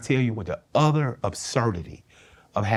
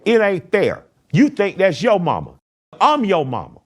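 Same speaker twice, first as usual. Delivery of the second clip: angry; 10 semitones higher, 7 dB louder than usual. Retold or imitated. Mother spazzing in funeral car.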